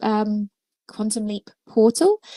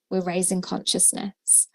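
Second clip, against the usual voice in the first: whispering; 6 dB quieter than usual. Real, not acted. Quiet reflective repeat of key phrase.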